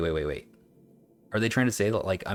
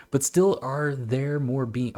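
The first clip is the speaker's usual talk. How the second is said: higher, slow recital; old text reading; 5 semitones higher, slower than usual. Acted. Streamer resumes the old text after joking about accents, higher slow recital. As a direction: start the old treatise slowly, pitched up.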